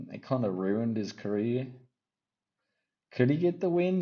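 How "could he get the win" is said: high, loud sudden burst of doubt; excited question. Real, not acted. The vlogger asking if the underdog can win, suddenly excited. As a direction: pop up and ask it with energy.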